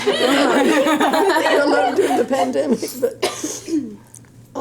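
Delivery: mother laughing at her daughter's wedding toast. Real, not acted. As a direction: let real laughter carry the words. Laughing through emotional toast.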